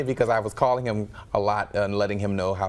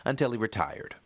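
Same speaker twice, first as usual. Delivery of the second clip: steady, polished newscaster delivery; news read; 3 semitones higher than usual. Acted. Anchor introducing a local musician's story, news read.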